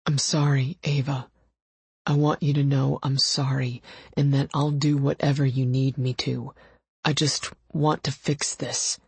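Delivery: understated pleading; remorseful, gruff lover. A narrator's reading. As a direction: apologize earnestly, holding emotion back. Estranged lover apologizes in character.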